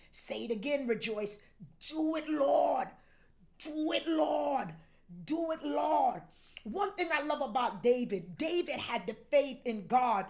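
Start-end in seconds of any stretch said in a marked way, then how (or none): 1.9-6.2 tearful plea. Real, not acted. Pastor cries out praying.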